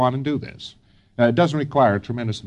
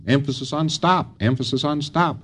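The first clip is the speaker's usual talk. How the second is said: the word stop hit each time, softer line; stress on stop; 3 semitones higher, 4 dB quieter than usual. Shown as a demonstration. Lecturer drilling students, punch stop softly. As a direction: tap the word stop twice. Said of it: "That's merely an emphasis on stop".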